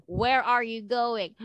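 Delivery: ordinary talk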